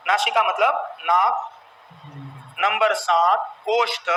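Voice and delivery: very slow, drawn-out list with pauses; slow dictation. Real, not acted. Teacher dictating the numbered places of articulation, slow dictation. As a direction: stretch each item so they can write.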